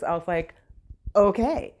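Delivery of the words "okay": startled okay, pitched up and louder; taken aback, agree quickly; high surprised okay. Retold or imitated. Shopper agrees to stranger's offer, startled and higher.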